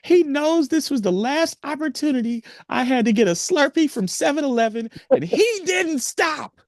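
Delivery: very high mock whine; hammed-up falsetto complaint; high wailing woman complaining to a hospital worker, hammed up; imitating distraught woman. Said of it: "She's like".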